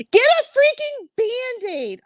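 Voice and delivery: high, loud exasperated yell; yelling punchline. Acted. Dad yelling at the ghost, loud and fed up. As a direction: blast it out, fed up. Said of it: "he just yells".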